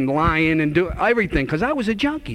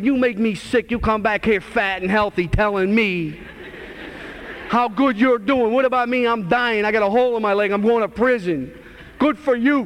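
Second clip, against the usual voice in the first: bitter rant pitched up high; resentful attitude; 4 semitones higher than usual. Retold or imitated. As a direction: throw his good news back at him, resentfully. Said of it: "I got an attitude".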